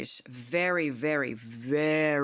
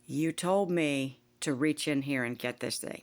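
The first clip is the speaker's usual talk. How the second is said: scared protest; slower than usual. Retold or imitated. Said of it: "I'm just like".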